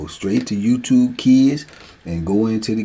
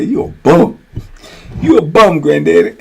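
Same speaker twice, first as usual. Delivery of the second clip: put-on a loud, higher kid voice teasing granddaddy; little grandson's taunt; 6 semitones higher, 8 dB louder than usual. Grandson calling his granddaddy a bum. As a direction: sass him like a mad three-year-old.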